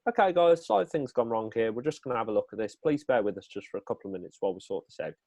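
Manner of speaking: an easy, unflustered apology to the audience; comfortable, calm. Shown as a demonstration. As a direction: calmly reassure a room when the tech fails. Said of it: "just say very comfortably and calmly".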